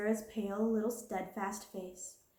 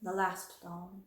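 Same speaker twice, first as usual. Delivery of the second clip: mournful voice; slower than usual. Acted. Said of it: "her little mournful voice had an odd sound".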